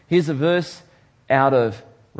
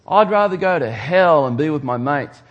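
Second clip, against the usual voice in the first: louder, brash mock quote; scoffing worldly guy; 5 dB louder than usual. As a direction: brag about it like a carefree lad. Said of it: "you hear people talk like this".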